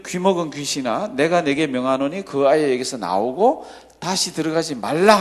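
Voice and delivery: declaimed Bible reading with firm command; scripture reading. Acted. Preacher reading Jesus commanding the spirit, scripture reading. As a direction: read the verse out formally, pressing the command. Reads the exorcism verse aloud.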